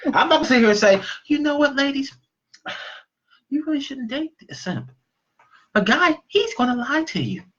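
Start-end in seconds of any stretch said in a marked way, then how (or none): 1.3-7.4 hammed-up nice-guy delivery, slightly higher; mock sweet. Shown as a demonstration. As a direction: break it to them with exaggerated gentleness. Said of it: "now, is that nicer?".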